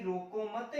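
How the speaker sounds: "रोको मत" as one unit, then stop; pause after मत. Shown as a demonstration. Teacher giving the second correct reading, pause after मत. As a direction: join "मत" to "रोको" and halt at the comma. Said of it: "दूसरा हो सकता है".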